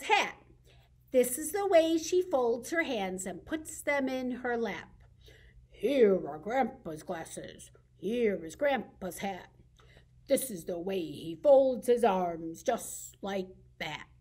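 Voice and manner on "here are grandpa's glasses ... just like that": grumpy grandpa. Shown as a demonstration. Librarian reading to kids, voicing a grumpy grandpa. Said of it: "I usually make my grandpa grumpy in this rhyme".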